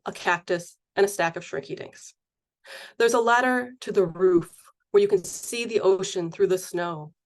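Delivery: measured poem recital with deliberate pauses; poetry reading. Acted. Poet reads a whale poem to the audience, measured recital. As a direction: read each phrase as a separate line of verse.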